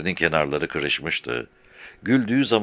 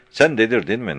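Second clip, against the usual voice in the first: angry; 6 semitones higher, 4 dB louder than usual. A narrator's reading. Halil berates Murtaza.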